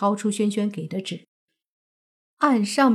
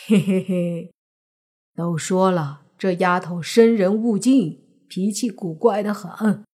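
gloating. Acted. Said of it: "泥巴幸灾乐祸".

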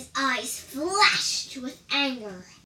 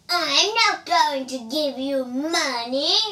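angry refusal; 4 semitones higher, 10 dB louder than usual. Acted. Man's face turned red.

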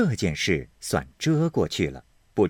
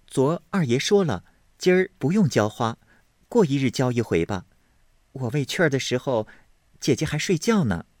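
higher and quick, pert retort; a touch of cheek; answering back; 5 semitones higher, faster than usual. Acted. Hongyu talks back to Qingwen, pert.

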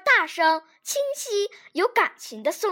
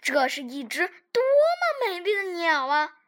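thin soft voice. Acted. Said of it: "细声细气地说".

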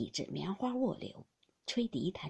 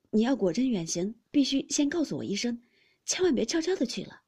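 tearful plea; 2 semitones higher, 7 dB louder than usual. A narrator's reading. Baoyu begging his friend to say goodbye first, earnestly pleading. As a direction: plead with building urgency, close to tears. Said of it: "说着便滴下泪来".

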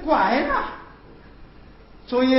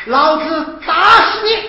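angry threat. Acted. Host threatens to beat priest.

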